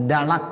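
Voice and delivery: "dalak" with voiced d; dal substitution. Shown as a demonstration. Teacher repeating the lay form, "dalak" with dal. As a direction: say "dalak", d instead of heavy t. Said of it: "Ya, pakai dal".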